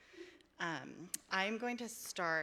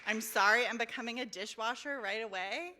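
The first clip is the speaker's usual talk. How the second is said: loud, high, fast delighted quoting; excited exclamation; 6 semitones higher, 11 dB louder than usual. Real, not acted. Reader repeating favorite line to audience, loud excitement. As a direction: burst out with the line like a thrilled fan.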